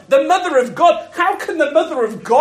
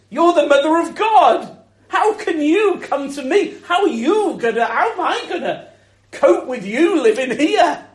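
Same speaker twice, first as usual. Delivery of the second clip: amazed Elizabeth; 4 semitones higher than usual. Retold or imitated. Voicing Elizabeth's amazed words.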